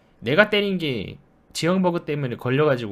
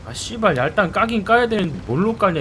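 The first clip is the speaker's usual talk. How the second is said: mocking quote; 4 semitones higher than usual. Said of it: "이러다가".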